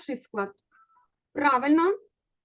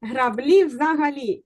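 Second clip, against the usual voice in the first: "Граблі" slow with stress on "лі"; slow stress demo; much slower than usual. Shown as a demonstration. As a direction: drag "граБЛІ взагаЛІ" to show the stress. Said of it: "І наголошуємо".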